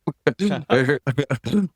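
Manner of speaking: demoing a raw growl-like noise; weird vocal sound. Shown as a demonstration. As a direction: make a strange throaty sound to show it. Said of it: "sometimes you have to make weird sounds".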